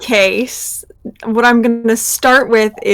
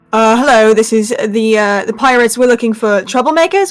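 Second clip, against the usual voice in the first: playfully gruff pirate act, louder; pretend pirate voice; 3 dB louder than usual. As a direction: put on a playful pirate for a kid. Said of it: "and I'm gonna say".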